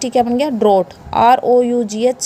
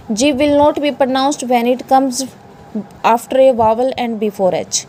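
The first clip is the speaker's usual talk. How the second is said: slow rule reading; much slower than usual. Shown as a demonstration. Reads the rule out slowly.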